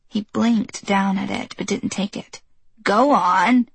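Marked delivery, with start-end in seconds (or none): 2.8-3.7 sharp, louder scold. Acted. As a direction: push him like a stern grandmother. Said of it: "she scolded".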